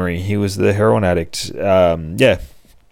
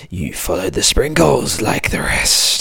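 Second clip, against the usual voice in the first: evil ice cream man. Acted. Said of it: "as he's getting eviler and eviler".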